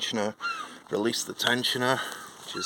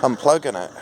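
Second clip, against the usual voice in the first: raised voice over a running engine; shouting over engine; 2 semitones higher, 5 dB louder than usual. Real, not acted. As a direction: project loudly over engine noise. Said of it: "I don't know if you can hear me over the engine".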